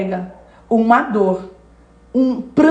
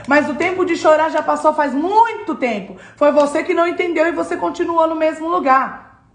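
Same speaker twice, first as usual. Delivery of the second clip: the Lord rebuking; 5 semitones higher than usual. Acted. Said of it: "Ele tá dizendo".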